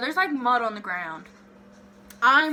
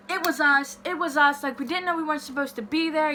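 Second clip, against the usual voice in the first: higher, hurried blurting; mock confession; 4 semitones higher than usual. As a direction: mimic a friend blurting it all out to police. Mimics friend confessing to police.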